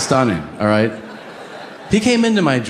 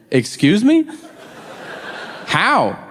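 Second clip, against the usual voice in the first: indignant surprise; 6 semitones higher, slower than usual. Retold or imitated.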